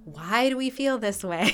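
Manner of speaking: high, drawn-out, amused question; mock lovestruck wondering. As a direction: imitate gushing lovers puzzling over feelings. Mimics the letters' lovestruck questioning.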